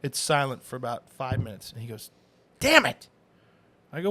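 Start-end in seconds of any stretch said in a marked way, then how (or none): 2.6-3.1 sudden loud mock curse; retold cop's outburst. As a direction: blurt it out loud, half-playing the cop. Officer swears in retold story.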